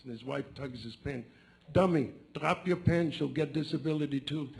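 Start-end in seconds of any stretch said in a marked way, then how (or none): 1.7-4.5 mock scolding. Wife tugging at her husband's pants, mock scolding.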